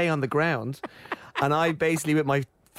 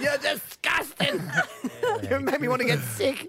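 mock disgust; 7 semitones higher than usual. Caretaker scorning possum again.

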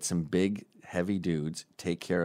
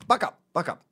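higher, louder stern self pep talk; mock pep talk; 5 semitones higher, 3 dB louder, faster than usual. Hillary scolding herself in the mirror, stern pep talk. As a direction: give yourself a firm talking-to in the mirror. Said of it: "She looks at herself in the mirror".

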